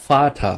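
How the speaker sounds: "ফাটা" with a clear F at the start. Shown as a demonstration. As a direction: pronounce the V in "ফাটা" as F. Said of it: "ঠিক ফ এর মতো উচ্চারণ হয়". ("ফাটা" ঠিক ফ-এর মতো)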